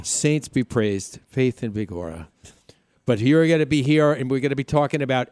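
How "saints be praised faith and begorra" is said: slow, low attempt at an Irish accent; terrible Irish brogue. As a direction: try a bad Irish brogue, drawn out. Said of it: "my bro accent is just terrible".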